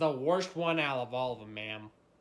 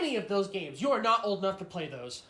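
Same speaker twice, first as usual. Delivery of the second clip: put-on whiny crying kid. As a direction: whimper like a denied kid. Kid denied games, whining.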